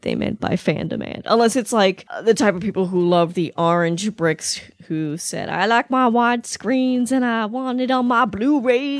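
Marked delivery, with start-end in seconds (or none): 5.5-9.0 a light, slowed mock Southern drawl; mock Southern accent. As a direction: lazily poke fun in a put-on Southern accent. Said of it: "You automatically go toward a Southern, uneducated accent there".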